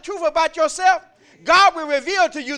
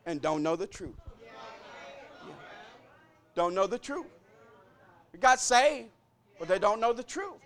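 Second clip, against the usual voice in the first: hushed preaching; 5 dB quieter than usual. Acted. Drops voice, intimate.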